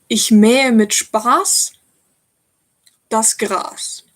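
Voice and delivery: slow, measured comic German poem; deliberate verse recital with suspended line endings. Shown as a demonstration. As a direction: recite it line by line, pausing after each phrase. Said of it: "I can read you a poem".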